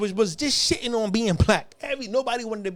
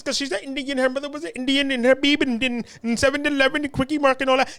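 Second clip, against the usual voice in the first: lightly put-on Indian accent, higher pitch; mock Indian accent; 5 semitones higher than usual. Comic mimics Kamala Harris's supposed real voice, mock Indian accent. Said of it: "She talk like this".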